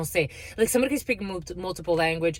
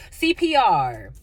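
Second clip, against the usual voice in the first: each letter drawn out slowly; slow disbelief; 4 dB louder, much slower than usual. Real, not acted. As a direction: spell it out, stunned. Spelling out in disbelief.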